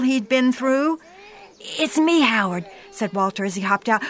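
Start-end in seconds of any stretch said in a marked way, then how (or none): 1.6-2.6 calling out. Acted. Calling to armed neighbor.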